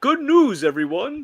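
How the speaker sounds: very high, loud calling voice. Joking that something will be like Futurama: Futurama impression. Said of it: "this is gonna be like Futurama".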